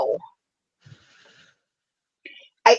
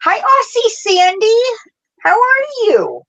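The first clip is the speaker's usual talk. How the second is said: much higher, sing-song hello to the yarn; playful greeting. Pretend. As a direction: squeal a cutesy hello. Greeting her yarn by name.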